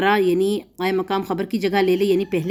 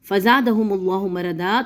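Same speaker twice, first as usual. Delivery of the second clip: slow recited Quran verse; measured tajweed reading; verse recitation; slower than usual. Acted. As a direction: chant the verse steadily. Recites verse before translating.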